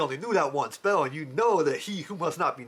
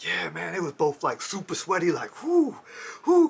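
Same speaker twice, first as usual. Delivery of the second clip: AAVE storytelling; 3 semitones higher than usual. Shown as a demonstration. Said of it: "I can recount this story as like".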